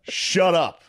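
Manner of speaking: high mock heckling, laughing; imitated heckler. Man heckling podcasters from the front, laughing imitation.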